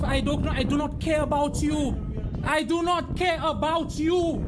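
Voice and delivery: angry insistence. Real, not acted. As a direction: spit out every word of I do not care about you. Real argument, repeated denial.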